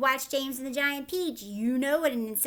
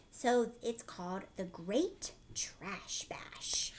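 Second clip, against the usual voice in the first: soft hushed whisper; 4 semitones lower, 5 dB quieter, slower than usual. Acted. Teacher whispering the book title to the class. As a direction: whisper it like a secret.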